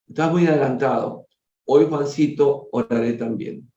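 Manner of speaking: measured, formal reading aloud; story narration. A narrator's reading. Reader telling a family's spiritual story to listeners, story narration. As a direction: read it out as a solemn tale.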